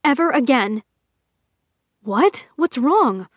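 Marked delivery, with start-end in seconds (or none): 0.0-0.8 forced edge. Acted. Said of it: "forcing an edge into her voice".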